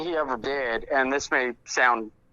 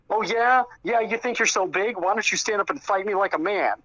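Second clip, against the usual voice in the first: higher-pitched mock challenge; retold taunting jab; 5 semitones higher than usual. Tony throws a rude jab at Mark, retold taunt. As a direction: goad him, voice raised in pitch, as if retelling. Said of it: "decided to throw a jab at him".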